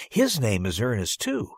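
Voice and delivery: lightly voiced little girl, voice jumping up at the end; tattling girl. Girl informing the teacher about the boy, eager. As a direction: point him out eagerly.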